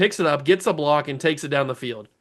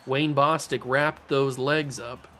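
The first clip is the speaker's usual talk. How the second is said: put-on southern accent; 2 semitones lower, 4 dB quieter than usual. Commentator calling a tackle in a southern accent. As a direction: slip into a southern sportscaster's accent. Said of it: "I don't know why I'm in a southern accent".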